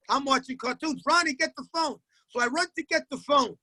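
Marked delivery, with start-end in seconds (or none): 1.1-2.0 raised, higher calls from the other room; mock yelling for the kid to pick up; retold yell. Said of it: "they yell".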